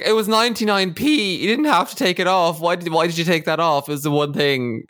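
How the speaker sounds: high-pitched, exasperated imitation; fuming complaint. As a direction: act out an outraged housemate over a trifle. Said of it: "he is absolutely fuming".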